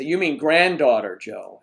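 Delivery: lightly imitated catty correction; nasty teasing friends. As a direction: lean on granddaughter to needle. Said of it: "my friends get really nasty".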